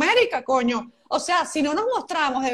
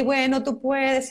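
mock coach cheer; much slower than usual. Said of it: "no sirvo para ser coach".

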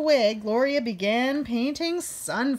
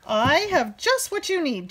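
exclaiming; 5 semitones higher than usual. Acted. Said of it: "Jeremiah exclaimed".

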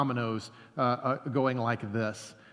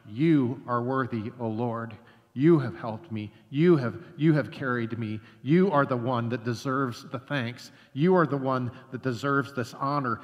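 prayerful. Shown as a demonstration. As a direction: pray it out sincerely. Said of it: "when I talk like this and I pray like this".

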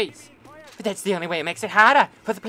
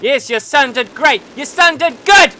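mock cheerful report, getting louder; sarcastic; 7 semitones higher, 6 dB louder than usual. Gamer mockingly telling dead soldier's parents the news, sarcastic. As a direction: sneer it like fake praise.

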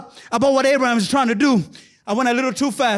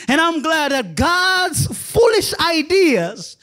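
preaching; 4 semitones higher, slower than usual. Acted. Preacher exclaims.

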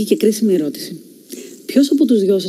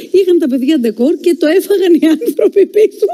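laughing; 8 semitones higher than usual. Real, not acted. Funny story about eaten decor.

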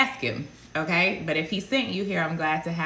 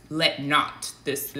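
voice of the Lord; slower than usual. Shown as a demonstration. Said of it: "because I don't talk like this".

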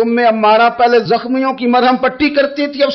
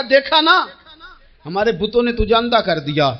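sneering taunt; 2 semitones higher than usual. Retold or imitated. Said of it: "ابو جال نے طنزیہ کہا".

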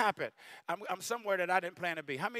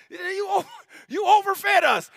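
son complaining; 10 semitones higher, 8 dB louder, slower than usual. Retold or imitated. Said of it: "He said".

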